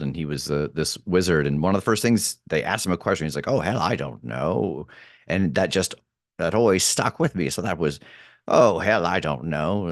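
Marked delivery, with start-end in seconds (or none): 3.5-4.9 put-on slow, drawn-out old tree wizard; a lightly voiced ancient tree, taking its time. Shown as a demonstration. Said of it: "old tree character ... this wizard". 8.5-9.9 lightly voiced old tree wizard, punchy opening; an old tree's catchphrase, starting strong then settling. Shown as a demonstration. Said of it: "get into that voice".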